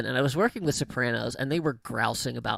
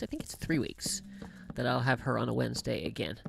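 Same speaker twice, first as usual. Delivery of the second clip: whispering; 6 dB quieter than usual. Real, not acted. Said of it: "unvoiced whisper".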